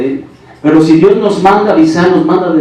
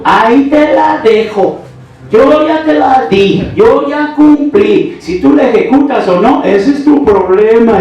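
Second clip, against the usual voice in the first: imitating a brother delivering a word; 8 semitones higher, slower than usual. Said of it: "Mi hermano me dijo".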